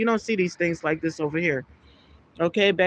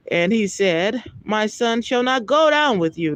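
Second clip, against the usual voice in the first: raised, measured Bible reading voice; scripture reading. Acted. Preacher reading Genesis aloud to his listeners, solemn. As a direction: read the verse out with solemn weight.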